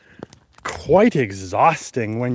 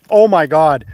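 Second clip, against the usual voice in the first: shocked; 7 dB louder than usual. Retold or imitated. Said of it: "I was like".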